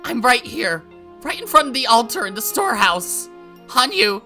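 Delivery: loud, high screams of her name; desperate shouting. Acted. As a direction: scream so she can hear you. Call louder.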